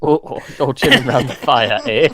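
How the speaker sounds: a lightly put-on Canadian accent, drawing out "eh"; mock Canadian accent. Joking to his co-host about Canadian businessmen, in a light mock Canadian accent. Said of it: "was that an accent?".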